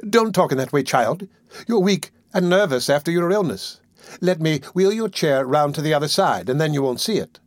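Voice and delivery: put-on a motherly old nurse fussing gently; old lady voice. Old nurse coaxing the sick boy to eat, lightly voiced.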